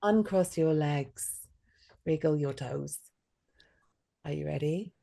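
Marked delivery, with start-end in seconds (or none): 0.0-3.0 repeated louder and slower. Shown as a demonstration. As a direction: say it again, louder and drawn out. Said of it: "coach repeats louder, slower".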